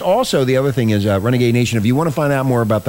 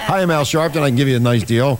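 used car salesman pitch; mock salesman voice; hard sell ad; 2 semitones higher than usual. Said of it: "sounds like a used car salesman".

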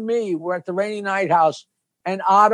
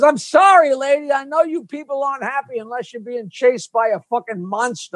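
a hint of a squeaky puppet; lightly voiced ventriloquist dummy; 3 semitones higher than usual. Otto voicing dummy George.

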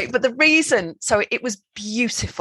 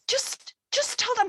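tense reassurance; 7 dB quieter, slower than usual. Retold or imitated. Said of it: "Rob's driving, going".

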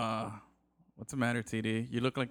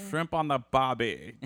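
put-on Australian accent; slower than usual. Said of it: "my limited, uh, racist".

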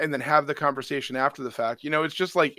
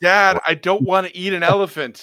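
put-on whiny kid complaining, a bit higher; 4 semitones higher, 8 dB louder than usual. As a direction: play the son refusing dinner. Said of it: "He's like".

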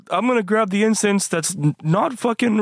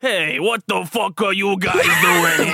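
rival voice; 3 semitones lower than usual. Acted. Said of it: "That voice, not that fucking voice again".

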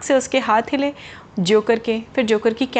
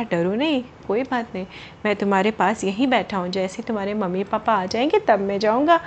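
reassuring; 3 semitones lower than usual. Acted. Boy comforts lost child.

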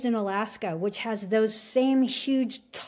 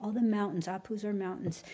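voice of the mountains; slower than usual. Retold or imitated. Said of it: "whole download from all the apus".

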